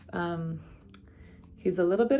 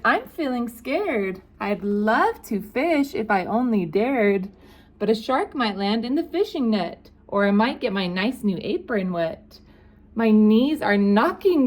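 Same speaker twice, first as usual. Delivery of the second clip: high, fretful cook voice; scared cook; 3 semitones higher than usual. Acted.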